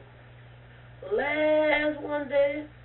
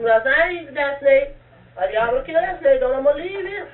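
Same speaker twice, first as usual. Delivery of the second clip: mild tearful protest; 3 semitones higher, 7 dB louder than usual. Retold or imitated.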